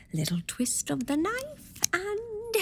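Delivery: slow, hushed, concentrating; slow whisper. Acted. Bonnie picking her lock with a knife, slow whisper. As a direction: breathe the words as you work the blade.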